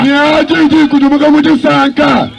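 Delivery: interpreter echoing the preacher with force; interpreted sermon. Acted. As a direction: carry the preacher's lines into the local tongue.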